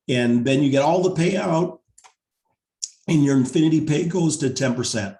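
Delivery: hoarse, tired voice from talking; worn-out voice, losing it. Real, not acted. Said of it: "I'm losing my voice too".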